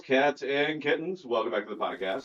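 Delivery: hammed-up McConaughey opener; Matthew McConaughey impression. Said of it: "that's my shitty Matthew McConaughey impression".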